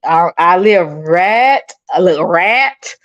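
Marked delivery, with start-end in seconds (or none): 0.9-1.7 "rat" for "right", drawn out in a country accent; country pronunciation. Real, not acted. Streamer showing off her hometown talk, country "rat". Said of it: "That's my country". 2.2-2.9 country-accented "rat", meaning "right"; country pronunciation. Real, not acted. Streamer repeating her hometown word, country "rat". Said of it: "That's my country".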